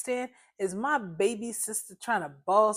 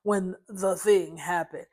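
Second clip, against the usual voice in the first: slow, mocking quote of his words; mocking echo; slower than usual. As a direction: drag out "when the thing happened" sarcastically. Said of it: "Listen to him".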